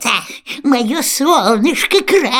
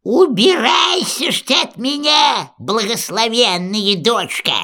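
angry shout. Acted. Baba Yaga throws her out.

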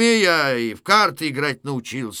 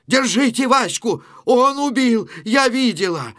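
high, loud cry of murder; shouted accusation; 9 semitones higher, 5 dB louder than usual. Acted. Vasilisa accusing Vaska of killing her husband, shouting. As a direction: scream the accusation for all to hear.

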